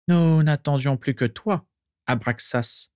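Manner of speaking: lightly voiced dark lord, ceremonial; lifted, formal dark lord greeting; Voldemort voice. A narrator's reading.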